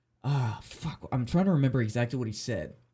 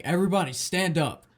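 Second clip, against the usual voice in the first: put-on angry old man; 6 semitones higher than usual. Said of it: "an angry Chinese old man".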